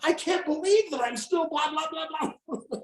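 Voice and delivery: a hint of a startled older woman, fading at the end; astonished older lady. Lady's sudden realization voiced.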